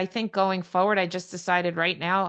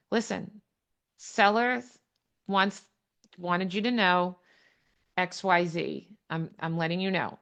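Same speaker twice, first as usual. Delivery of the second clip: calm neutral relay. Shown as a demonstration. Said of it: "You just say to them".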